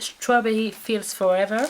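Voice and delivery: product name said slowly in a showy English accent. Shown as a demonstration. Beauty vlogger naming her Lush bar to viewers in an English accent. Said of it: "Vous avez vu l'accent?".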